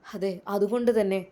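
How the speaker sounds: storyteller voice, loud then settling; narrating what comes next; story narration. A narrator's reading. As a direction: close the scene with suspense. Narrator closing.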